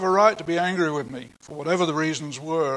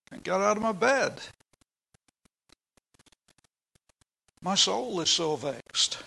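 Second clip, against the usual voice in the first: sick David lamenting; 3 semitones higher than usual. Retold or imitated. Preacher voices bedridden David crying out to God, anguished. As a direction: groan it out like a man too sick to rise. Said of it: "this is what David is getting at here".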